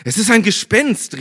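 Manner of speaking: high, loud cry of fright; frightened cry. A narrator's reading. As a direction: shriek it like panicked disciples. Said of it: "riefen sie und schrien vor Angst". (ängstlicher Schrei, hoch und laut)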